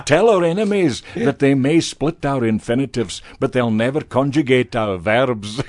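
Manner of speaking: can't keep a straight face in the battle cry; hammed-up rallying cry dissolving into laughter; laughing through the speech. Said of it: "a la Braveheart".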